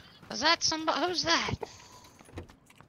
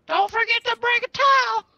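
loud, higher silly voice; hammed-up character line; 8 semitones higher, 5 dB louder than usual. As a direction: call it out like a goofy character. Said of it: "It's funny 'cause it's true".

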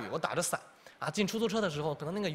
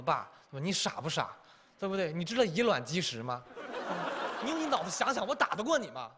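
mocking backtalk; 3 semitones higher than usual. 孩子顶嘴反问父亲.

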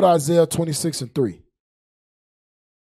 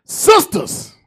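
loud call-out; 10 semitones higher, 6 dB louder than usual. Real, not acted. Calling out to the women.

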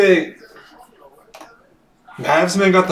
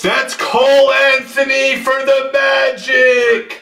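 excited card call; 4 semitones higher than usual. Real, not acted. Breaker announces a pulled card.

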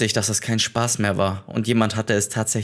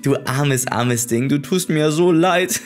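höhnisch triumphierend; 4 semitones higher than usual. Acted. Triumphiert über den Ex.

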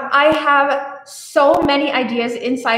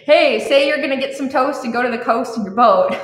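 mock American accent. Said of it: "so they would say, like".

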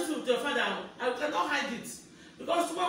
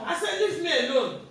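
firm, somewhat raised repeat; mildly raised, angry demand; angry insistence; 3 semitones higher, 4 dB louder than usual. Real, not acted. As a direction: insist on being left alone. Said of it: "I say I'm very angry".

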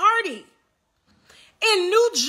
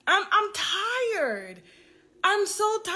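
mock fake crying; 4 semitones higher than usual. Mocking a rival's fake Botox tears, whiny mock sob. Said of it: "I'm tired of the fake tears".

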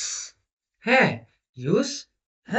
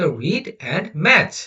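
slow reading; 3 semitones higher, much slower than usual. Shown as a demonstration. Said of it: "বলছে পড়ো এবং মিলাও".

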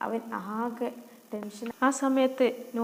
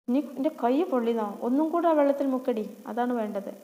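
cruel stepmother shouting; 3 semitones higher, 4 dB louder than usual. Acted. Stepmother scolds Noorin for daydreaming, shouting. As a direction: tear into the dreaming girl.

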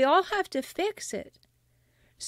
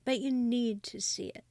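hushed unvoiced "but you need to see it"; urgent whisper; 3 dB quieter than usual. Real, not acted. Host urging a listener to face abuse, whispering. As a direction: press the point in a whisper.

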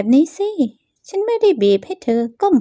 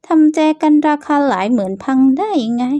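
acted outrage over a smashed vase; mock shocked accusation; 4 semitones higher than usual. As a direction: feign shock to pin the blame on her. Accuses rival over broken vase.

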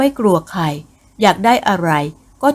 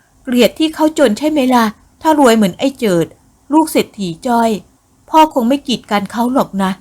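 higher voiced daughter talking back; defiant daughter; 4 semitones higher than usual. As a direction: throw the accusation back at her father. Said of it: "หญิงสาวต่อปากต่อคำกับบิดา".

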